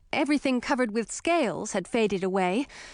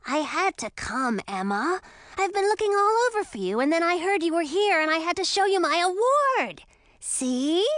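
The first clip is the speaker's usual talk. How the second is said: put-on higher, eager boyish dragon gushing; excited young dragon; 7 semitones higher than usual. A narrator's reading. Young dragon tells Emma he won an award, excited. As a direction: rush it out like a proud kid.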